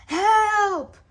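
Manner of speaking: very high loud yelp for help; panicked cry. A narrator's reading. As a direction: squeal in panic. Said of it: "cried the prince".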